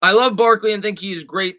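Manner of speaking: ordinary talk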